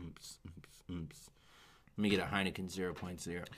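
very soft, fast whispered ad line. Pretend. Pitching a beer ad, whispered fast voiceover. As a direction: murmur it like the small print in an ad.

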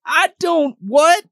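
high, baffled put-on voice; mock confusion. Confused candidate reacting to Peter, high and baffled. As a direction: sound lost and thrown.

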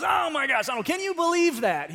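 high, loud, disbelieving exclamation; mock the guest's outrage, loud and high; incredulous outburst. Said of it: "the other guy goes".

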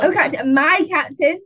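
dramatic recital. Retold or imitated. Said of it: "Dead Poets Society quote".

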